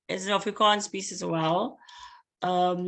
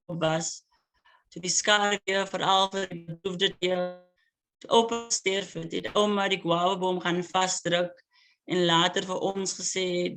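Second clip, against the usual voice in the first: poem reading. Acted. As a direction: savour each line, pause between images. Poet reads Afrikaans poem.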